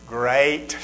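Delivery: low, soft grudging mutter; grumpy dad. Retold or imitated. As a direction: answer the preacher through your teeth. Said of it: "you know what Dad says".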